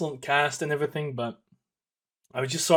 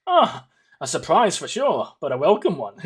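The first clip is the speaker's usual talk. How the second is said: Chancellor Palpatine; 2 semitones higher, 4 dB louder than usual. Retold or imitated. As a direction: savour it like a scheming emperor. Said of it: "I felt like Chancellor Palpatine".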